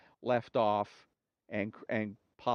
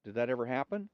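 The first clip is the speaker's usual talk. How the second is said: woman's voice; 2 semitones higher than usual. Acted. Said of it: "One says to the other".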